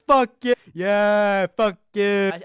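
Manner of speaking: loud, high drawn-out yells; Lucas spasm. Retold or imitated. Fan copies the spasm that annoys his friends, shouted impression. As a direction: mimic an explosive, stretched-out outburst of hype. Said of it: "start doing that fucking Lucas spasm".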